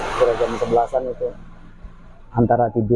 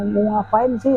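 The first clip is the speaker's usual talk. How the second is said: high-pitched mock yell at no one visible; retold exasperated yell; 8 semitones higher than usual. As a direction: imitate a fed-up demand, voice raised in pitch. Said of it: "sampai saya teriak-teriak".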